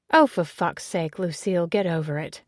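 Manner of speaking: loud, exasperated snap; barking. Acted. Ezzy telling Lucy off in front of Olivia, loud and exasperated. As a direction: bark her away with a dismissive wave. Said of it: "Ezzy barks".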